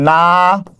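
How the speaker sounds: নাতিশীতোষ্ণ pulled apart into held syllables with long gaps. Shown as a demonstration. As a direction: sound out নাতিশীতোষ্ণ very slowly, piece by piece. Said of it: "উচ্চারণ করার সময় যেখানে যেখানে থামি". (নাতিশীতোষ্ণ ভেঙে ভেঙে টেনে বলা)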